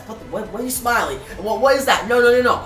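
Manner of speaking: mock panic. Evil Bat Baby thrown by his smiling enemy, mock panic. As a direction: imitate a villain's rising alarm. Villain panics as smile baffles him.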